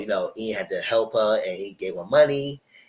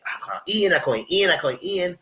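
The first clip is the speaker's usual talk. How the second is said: mildly frantic, raised-pitch imitation; freaking out; 6 semitones higher than usual. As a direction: repeat it like someone starting to panic. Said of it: "but Quinn is freaking out".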